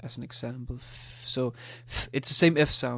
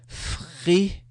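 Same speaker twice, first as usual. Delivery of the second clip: "Frihed" drawn out slowly, rising at the end; slower; 6 semitones higher, 6 dB louder than usual. Shown as a demonstration. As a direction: stretch "Frihed" so the learner can follow. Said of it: "I hope I can say it a bit slower".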